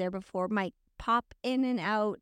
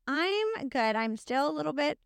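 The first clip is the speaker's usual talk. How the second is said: sick voice. Real, not acted. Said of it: "don't mind my lovely, sexy, sick voice".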